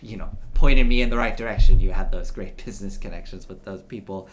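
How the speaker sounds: a proud patriarch addressing his son; stately older gentleman. Acted. Old man replies to son.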